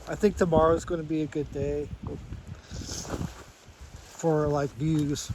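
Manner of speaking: sniffling between words; quick sniff. Real, not acted. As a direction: talk with a runny nose, sniffing. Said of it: "Sorry about s-, the sniffing".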